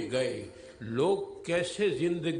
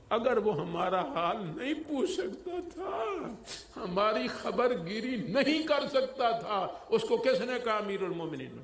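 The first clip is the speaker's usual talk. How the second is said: indignant rebuke; 3 semitones higher than usual. Acted. Woman rebukes the caliph.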